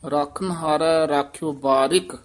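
ਰਖਨਹਾਰੈ held with a rise, then a stop; teacher shows the student the stop after ਰਖਨਹਾਰੈ. Shown as a demonstration. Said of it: "ਰਖਨਹਾਰੈ ਪਦ ਤੇ ਵੀ ਯਮਕ ਲਾ ਦੇਣੀ ਹੈ".

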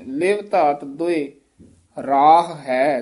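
ਦੋਇ held with a pause before ਰਾਹ ਹੈ; ਦੋਇ ਤੇ ਠਹਿਰਾਅ; pause after ਦੋਇ. Shown as a demonstration. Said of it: "ਇਸ ਤਰ੍ਹਾਂ ਦੋਇ ਪਦ ਤੇ ਠਮਕ ਲਾਉਣੀ ਹੈ".

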